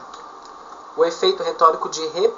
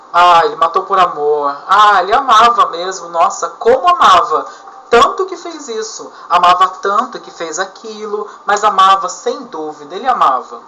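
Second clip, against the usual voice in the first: louder, hammed-up mock admiration; sarcastic repetition; 4 dB louder than usual. Shown as a demonstration. Teacher replaying the example for students, louder sarcastic tone. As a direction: lay the sarcasm on thick with each "amava". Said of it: "Isso serve de ironia".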